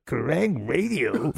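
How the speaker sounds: very slow, drawn-out puzzled question; slow puzzled drawl. Retold or imitated. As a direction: stretch it out, baffled and slow. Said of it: "He's like".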